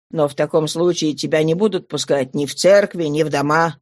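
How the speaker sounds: low voice, a touch of bitterness. Acted. Father warns his barefoot daughter, understated bitterness. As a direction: add it low, mildly bitter. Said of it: "с горечью прибавил он".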